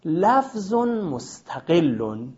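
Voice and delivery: لفظ مستقل drawn out very slowly; slow recitation. Shown as a demonstration. Teacher reciting the definition to students, very slowly. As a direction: stretch out لفظ مستقل word by word. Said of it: "تعبیر اینه".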